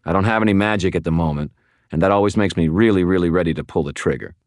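fast, pressing warning; quick, tense warning. Acted. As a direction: rattle off a threat to keep them still. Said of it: "I warned her".

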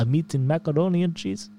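light Russian accent on "I'm eating macaroni and cheese"; mock Russian accent. Shown as a demonstration. Asked to try it in Russian, a light mock Russian accent. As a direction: roll out "macaroni" with a playful Russian lilt. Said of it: "you gotta do Russian".

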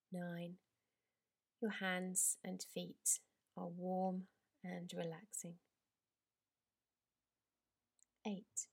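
drawn-out countdown with long pauses; slow soothing countdown. Acted. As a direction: count down gently, easing into relaxation. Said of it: "I'd like to count down from ten, helping you to relax".

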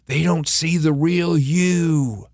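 slow, drawn-out voice of self-doubt; lightly acted inner critic, stretched out; little imposter voice. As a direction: play the nagging voice in someone's ear. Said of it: "that little voice is in your ear saying".

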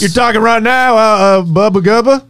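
mock redneck cop taunting; a light Southern drawl, needling the suspect. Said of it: "redneck cops".

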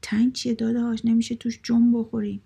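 suddenly bold, punchy retort; emboldened. A narrator's reading. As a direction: perk up and object with new confidence. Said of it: "فرید جونی گرفت و گفت".

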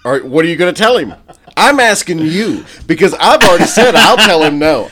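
loud, playful interrogation of a friend; pressing loudly. Real, not acted. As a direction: push him for an answer, half shouting.

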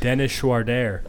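slow French-sounding "Dennis Schroeder" with "Schroeder" as "shwar-dair"; French accent. Real, not acted. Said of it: "This guy's French all of a sudden".

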